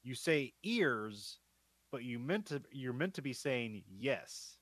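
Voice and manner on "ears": "ears" drawn out slowly to pass for yes; posh British yes. Shown as a demonstration. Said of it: "one word of a posh British accent".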